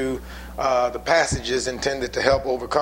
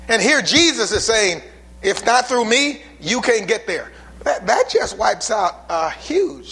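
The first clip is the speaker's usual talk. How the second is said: fiery preaching; 3 semitones higher than usual. Acted. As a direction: preach it with rising fire. Preacher building to full force.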